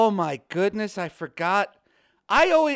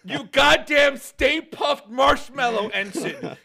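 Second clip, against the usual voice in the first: laughing insult; 4 semitones higher, 3 dB louder, slower than usual. Pretend. Mock insult while laughing.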